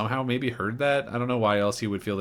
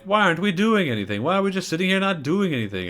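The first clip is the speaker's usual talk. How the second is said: higher, louder panicked outburst; freaking out; 9 semitones higher, 4 dB louder, faster than usual. Retold or imitated. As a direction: panic at the captain. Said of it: "Bailey starts freaking out".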